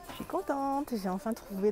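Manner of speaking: bright happy burst; pleased, pitch jumping up; excited. Real, not acted. Happy find.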